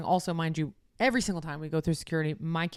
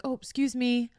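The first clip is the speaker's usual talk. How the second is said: lightly raised, polite request to pass; a nice, unforced "excuse me"; 6 semitones higher than usual. Retold or imitated. Traveller politely asking a man blocking the walkway, nicely. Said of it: "Like, so nice".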